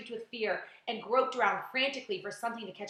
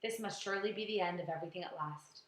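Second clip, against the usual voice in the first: quiet despair; 3 semitones lower, 6 dB quieter than usual. Acted. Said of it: "told himself".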